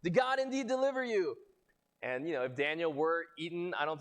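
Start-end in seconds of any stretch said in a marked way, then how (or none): 0.0-1.3 yelling. Retold or imitated. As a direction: shout it down hopefully. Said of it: "yells into the lion's den".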